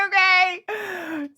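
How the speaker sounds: very high, drawn-out panicky okay; shaky okay. Retold or imitated. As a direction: squeak out an okay. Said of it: "I'm like".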